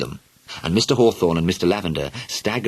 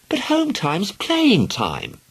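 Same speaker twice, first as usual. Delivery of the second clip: pleading cry; 13 semitones higher, much slower than usual. Acted. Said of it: "Helen cried".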